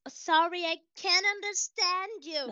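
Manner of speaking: playing dumb American. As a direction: act like you can't understand a word. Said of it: "eles se passam de retardado".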